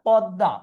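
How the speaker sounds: পদ্মা as "pɔdda"; open o sound. Shown as a demonstration. Teacher confirming the answer, পদ্মা with open ɔ. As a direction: open ɔ in the first syllable of পদ্মা. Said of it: "অধ্বনি হচ্ছে".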